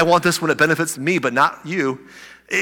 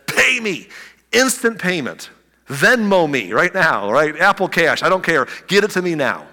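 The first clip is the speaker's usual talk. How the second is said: demanding payment; 3 semitones higher than usual. Acted. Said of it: "and he demanded instant payment".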